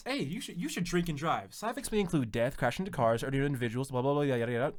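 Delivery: cheerful ad with eerie menace; drug infomercial voice. Retold or imitated. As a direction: rattle off side effects like an ad. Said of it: "he's a drug infomercial".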